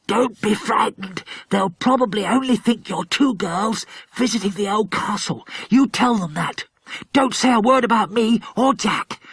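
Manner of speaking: put-on a touch of urgent hushed boy's voice; whispered boy's instructions. A narrator's reading. Philip in armour urging the frightened girls, hushed. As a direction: reassure the girls quickly from hiding. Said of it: "whispering instructions to the girls".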